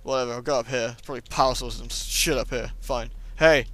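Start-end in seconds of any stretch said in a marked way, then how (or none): 3.4-3.7 louder plea, laughing at the end; loud mock pleading; calling for help. Real, not acted. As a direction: call out for a hand, half laughing. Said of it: "I'm stuck".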